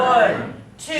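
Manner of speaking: loud "One," called out like a volleyball team; counting out loud. Shown as a demonstration. Teacher leads a volleyball count, loud team call. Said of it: "Count to three".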